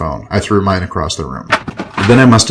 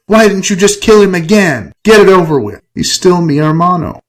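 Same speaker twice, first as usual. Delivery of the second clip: high, heated accusation; yelling; 10 semitones higher, 4 dB louder than usual. Acted. Ava standing over Enrique, yelling. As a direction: yell it down at him. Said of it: "stood over me and yelled".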